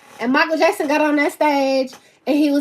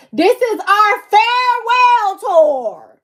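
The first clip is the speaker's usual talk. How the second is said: proud declaration; 8 semitones higher, 5 dB louder, slower than usual. Retold or imitated. Retelling Michael's announcement.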